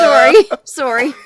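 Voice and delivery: "Sorry" said the Canadian way; Canadian accent. Real, not acted. Guest apologizing to the co-hosts, true Canadian accent. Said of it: "that's true Canadian right there".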